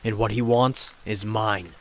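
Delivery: a lightly voiced demon, hissing with contempt; a touch of a seething demon voice. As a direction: spit the words out at her like a jealous demon. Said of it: "The demon seethed".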